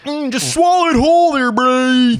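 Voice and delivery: high, fast, loud gym bro. Acted. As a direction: shout it like a pumped gym bro. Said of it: "It's my bro voice".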